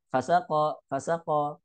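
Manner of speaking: fasaqo as one short word; run together. Shown as a demonstration. Teacher showing a reader's mistake, run together. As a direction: say "fasaqo" quickly with fa glued to saqo. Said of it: "dia malah menggabungkan fa, sa dengan ko".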